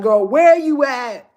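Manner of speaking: a hint of a concerned friend, slow; lightly voiced friend asking after her; fan checking in. Fans finding her on Instagram, lightly voiced and slow. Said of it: "be like".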